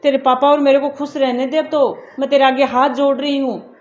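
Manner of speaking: loud, harsh scolding of an unwanted daughter; angry scolding. Acted. Mother angrily scolds married daughter calling for shagun money, loud scolding. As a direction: tell her off hard, fed up and bitter.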